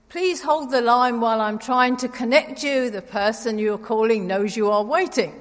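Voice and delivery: recorded hold message; automated phone voice. Retold or imitated. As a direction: read it like an automated line. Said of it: "slightly irritating automated voice that says".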